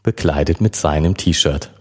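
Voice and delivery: even audiobook reading voice; calm storyteller reading a romance scene; story narration. A narrator's reading. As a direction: read the chapter to listeners. Reads the novel chapter aloud.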